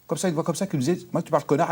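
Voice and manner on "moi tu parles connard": a mock Corsican accent replayed; lightly redone Corsican accent. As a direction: imitate the Corsican dog voice again. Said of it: "avec un fort accent corse".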